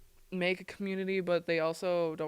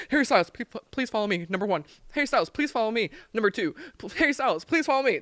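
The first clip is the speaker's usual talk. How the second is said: pleading fan; 4 semitones higher, 5 dB louder, much faster than usual. Retold or imitated. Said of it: "And I'd be like".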